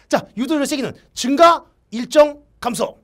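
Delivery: high, loud announcement of the answer; triumphant announcing. Real, not acted. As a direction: proclaim it like a winner.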